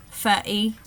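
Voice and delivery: "footy" with the t as a glottal stop, "foo'y". Shown as a demonstration. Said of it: "the glottal stop".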